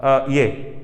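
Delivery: long drawn hesitant uhs; filler hesitation. Shown as a demonstration. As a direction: stall on fillers like a lost speaker. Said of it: "ये होता है pause".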